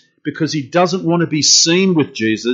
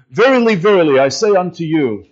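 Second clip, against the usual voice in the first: put-on old King James phrasing. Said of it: "We don't speak like that anymore".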